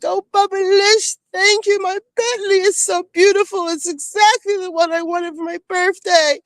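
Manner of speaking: high, put-on fake British accent, mocking Dorit. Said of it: "she speaks with this fake British accent".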